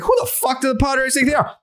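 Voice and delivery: half-joking disbelief; playful jokey tone. Shown as a demonstration. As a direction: toss it off as a compliment. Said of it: "That's how I said it".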